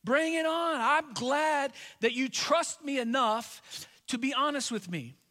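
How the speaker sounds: rising, inviting voice of God; God cheerfully daring you to complain; voicing God, inviting. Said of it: "God's in heaven saying".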